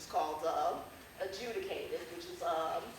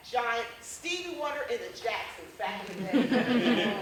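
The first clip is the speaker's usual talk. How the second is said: comic essay reading; 4 dB louder than usual. Acted. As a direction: perform a funny memoir for a live crowd. Performs humorous essay to audience.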